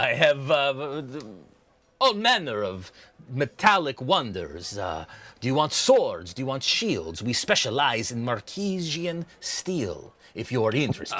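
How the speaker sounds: lightly voiced proud shopkeeper; a hint of showy salesman; merchant pitching wares. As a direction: pitch the wares with a little flourish. Game master voices merchant.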